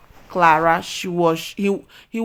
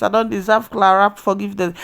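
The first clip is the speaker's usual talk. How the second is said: quoting the father; 3 dB louder, faster than usual. Retold or imitated. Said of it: "Even Jonathan used his mouth to say it".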